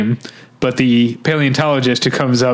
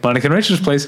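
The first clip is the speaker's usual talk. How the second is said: calm; much faster than usual. Retold or imitated. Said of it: "very calmly".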